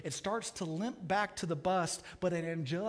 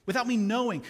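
loud, high outraged repetition; anguished cry; 7 semitones higher, 10 dB louder than usual. Acted. Ghost cries out at the angel, loud and outraged. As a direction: throw the words back in pain.

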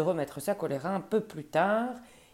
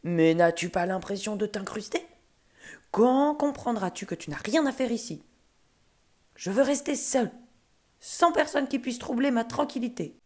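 exasperated, raised-pitch scolding; angry ogre tirade; 4 semitones higher than usual. Acted. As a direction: scold an unwanted guest, voice pushed up. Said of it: "rugit l'ogre".

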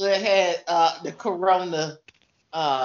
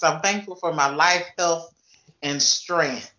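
church voice. Shown as a demonstration. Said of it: "in my church voice".

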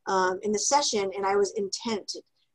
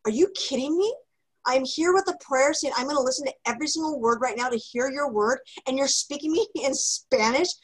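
exasperated disbelief; 4 semitones higher than usual. Retold or imitated. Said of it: "I was like".

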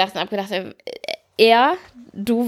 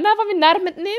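Mutterstimme zum Kind; 8 semitones higher, much faster than usual. Retold or imitated. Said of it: "wenn irgendwelche Mitarbeiter".

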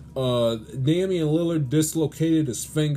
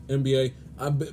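normal talking voice

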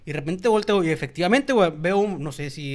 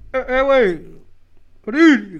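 high, loud call toward the house; retold yell; 7 semitones higher, 10 dB louder, much slower than usual. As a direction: shout to whoever is inside. Calling to the silent house.

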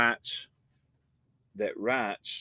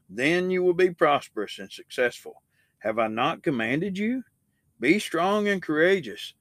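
measured, emphatic Bible reading; emphatic scripture reading; 2 semitones higher than usual. A narrator's reading. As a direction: read it out firmly as a solemn command. Reading God's charge to Joshua.

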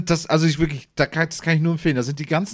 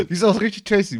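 chewing while talking; 5 semitones higher, 3 dB louder than usual. Real, not acted. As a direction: mouth full of mandarin. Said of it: "ich hab dich nur wieder schmatzen gesehen".

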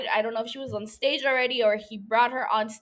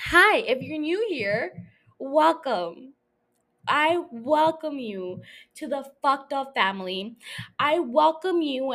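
cult leader welcome. Pretend. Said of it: "That's, that's a cult leader welcoming you to the cult".

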